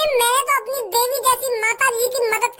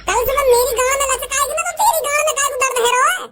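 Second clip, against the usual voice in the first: angry rebuke. Acted. Brother snaps at meddling brother.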